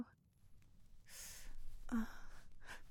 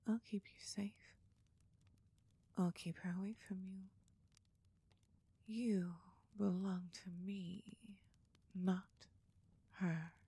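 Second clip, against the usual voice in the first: pillow talk. Acted. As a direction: soothe him gently to sleep. Cuddling after climax.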